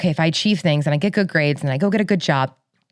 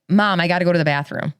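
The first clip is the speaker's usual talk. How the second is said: Midwest accent with long A's; Chicago accent. Shown as a demonstration. Chicagoan showing British friend her Chicago accent. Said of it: "this is how I'd say".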